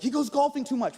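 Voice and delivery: mock whine of complaint; mock media complaint. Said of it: "You guys are always like".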